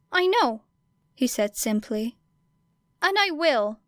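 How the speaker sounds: put-on a firm, determined young hero. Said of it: "blazed with determination".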